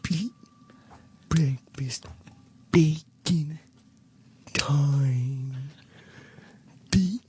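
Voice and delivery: each word dragged out slowly; slow deliberate speech. Real, not acted. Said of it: "you speak so slowly".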